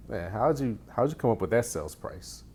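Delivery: fast, pushy challenge; combative question. Shown as a demonstration. Coach showing a combative way to ask an agent. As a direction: grill them on the price. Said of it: "one sounds a little combative".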